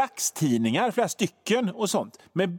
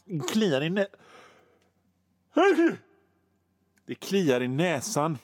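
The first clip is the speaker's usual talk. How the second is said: posh accent strain. Shown as a demonstration. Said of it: "när jag försöker ha den Per Gyllenhammar".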